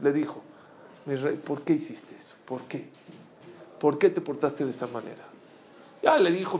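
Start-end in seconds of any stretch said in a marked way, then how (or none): 1.1-5.2 gentle, low rebuke without anger; calm reproach. Retold or imitated. Teacher reproving a pupil after two weeks, calm and low. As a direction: ask softly for an explanation, voice held down. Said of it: "nunca puedo reclamar con coraje".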